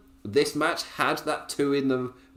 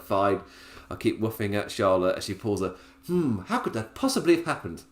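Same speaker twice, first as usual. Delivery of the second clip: posh voice; 3 semitones lower than usual. Retold or imitated. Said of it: "that voice is in my head".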